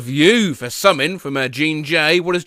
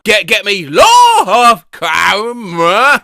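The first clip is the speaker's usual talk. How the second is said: plain 1; 2 semitones higher, 7 dB louder, much slower than usual. Shown as a demonstration. AI voice prompt, repeated louder.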